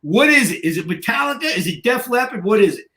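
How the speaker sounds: imitating someone desperate to know; retold eager pleading. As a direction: badger him like an excited gym bro. Retold guys begging to know the music.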